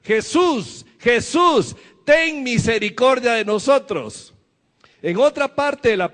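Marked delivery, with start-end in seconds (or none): 0.0-4.3 mock shout. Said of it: "Y empezaron a gritar".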